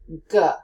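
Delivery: G breathed from the throat. Shown as a demonstration. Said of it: "say G as in get or go".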